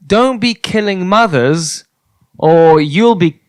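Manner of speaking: solemn recital. Pretend. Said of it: "life lessons that happen to have a theme that rhyme".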